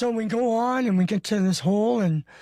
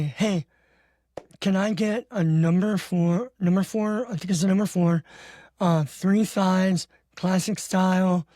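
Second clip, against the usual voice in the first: slow, deliberate drive-thru order; slow careful ordering. Retold or imitated. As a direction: spell out each item slowly. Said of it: "I get there and I say".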